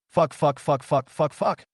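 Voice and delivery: swearing at a screen. Acted. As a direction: spit the curses at the screen. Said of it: "swearing at the screen".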